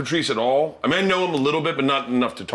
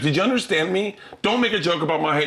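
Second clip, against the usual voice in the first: mildly raised, insistent retold demand; stern warning; 5 semitones higher than usual. Comic to host before going on stage, stern. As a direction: press the warning home, pitched up a little.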